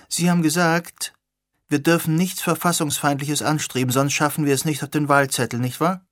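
lightly voiced young woman, keen and questioning; a hint of an earnest young activist; Sirona's voice.

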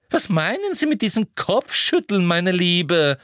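high, loud, testy demand; irritated. A narrator's reading. Umbridge questions Marietta's head-shaking, irritated. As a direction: let irritation push the voice up. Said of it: "sagte Umbridge gereizt".

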